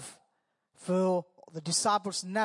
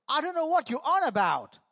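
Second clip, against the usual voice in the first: acted denial; 6 semitones higher than usual. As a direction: play Peter brushing off the accusation. Peter denies knowing Jesus.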